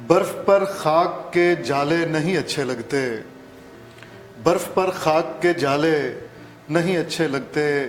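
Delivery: measured Urdu verse reading; ghazal recitation. Acted. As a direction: recite the couplet in set phrases, pausing between them. Guest recites his ghazal.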